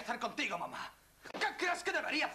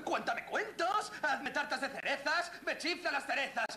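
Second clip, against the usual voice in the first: put-on childish demand; 4 semitones higher than usual. Son demands lost childhood.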